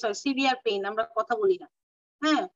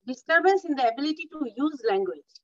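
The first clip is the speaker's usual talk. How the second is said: disturbance in the ability to use language said slowly for notes; slow dictation; much slower than usual. Shown as a demonstration. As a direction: dictate it slowly so students can write. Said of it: "teacher dictating definition".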